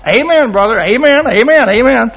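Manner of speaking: repeated, lifted amens; acted agreement. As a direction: playfully cheer on a preaching friend. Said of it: "I'm sitting there thinking".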